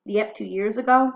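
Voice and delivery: clear, measured read-aloud with emphatic key phrases; diary read aloud. A narrator's reading. Teacher reading Anne's D-Day diary entry to students, expressive read-aloud.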